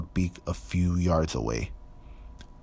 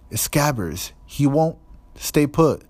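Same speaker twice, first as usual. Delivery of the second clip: higher and louder, rising in panic; frantic Ron; 8 semitones higher, 4 dB louder than usual. A narrator's reading. Ron fights the squirming rat in his pocket, frantic. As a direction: cry out in frustration at the rat.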